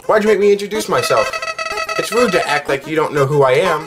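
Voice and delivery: high cartoon flower, mildly put out; Flowey. Flower chides the player over introductions, high character voice. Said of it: "use Jack's voice for Flowey".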